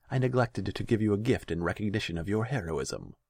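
smooth, mocking ruler; false courtesy, cold underneath; silky villainous Khan. A narrator's reading. Khan voiced in story.

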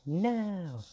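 high, loud shriek of protest. A narrator's reading. Fairies shrieking at the angry queen, loud and high. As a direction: shriek it out in alarm. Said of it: "fairies shrieked in chorus".

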